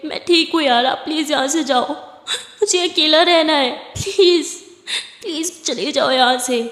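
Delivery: half-sobbed plea to be left alone; a touch of crying in the plea; tearful pleading. Acted. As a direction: beg through tears, slowing on the middle line. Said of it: "तारा अभी भी बहुत रो रही थी".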